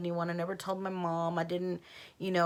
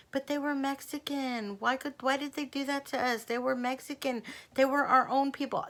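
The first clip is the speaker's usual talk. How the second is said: distraught repeating; 7 semitones higher than usual. Retold or imitated. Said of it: "repeating the same thing".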